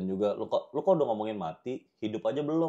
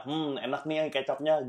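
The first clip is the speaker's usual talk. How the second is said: fake enjoyment; 3 semitones higher, slower than usual. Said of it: "perlu gua acting muka enak".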